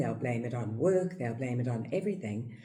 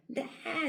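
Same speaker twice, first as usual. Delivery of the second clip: high whining cry; toddler tantrum wail; 13 semitones higher, 4 dB quieter than usual. Retold or imitated. Toddler throwing a tantrum in the shop, high wail. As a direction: wail like a thwarted two-year-old.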